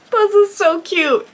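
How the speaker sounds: high, loud, drawn-out coo; delighted gushing. Real, not acted. Unboxer sees the matching cat sticker, delighted gushing.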